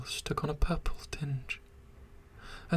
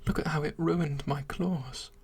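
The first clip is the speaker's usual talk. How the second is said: pleading creature. Acted. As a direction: beg her to understand, breathless with longing. Creature proposing, begging desperately.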